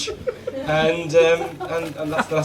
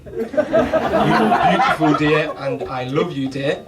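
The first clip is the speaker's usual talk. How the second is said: hammed-up sweet husband; doting husband; 4 dB louder, slower than usual. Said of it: "remember these three phrases".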